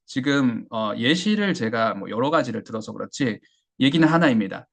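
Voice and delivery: ordinary talk, nothing marked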